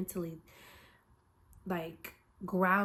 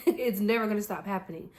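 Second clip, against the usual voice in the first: louder, laughing, punching never; laughing emphasis; 2 semitones higher, 6 dB louder than usual. Shown as a demonstration. Vlogger to viewers, laughing and louder on never. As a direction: laugh as you repeat it, stressing never.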